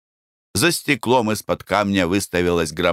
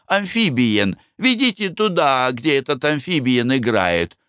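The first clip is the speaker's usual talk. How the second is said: high-pitched disgusted lady; shrill-free high fussy wife voice; Glafira, squeamish lady; 9 semitones higher than usual. Acted. Glafira refuses monkeys.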